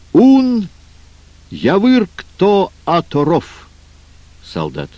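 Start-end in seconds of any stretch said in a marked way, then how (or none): 0.1-3.7 "Ун явыр кто оторов" said as reversed syllables, high and loud; backwards speech. Acted. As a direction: recite "Ун явыр кто оторов" as words spoken backwards, slowly. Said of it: "только их надо говорить, как рак ползёт задом наперёд".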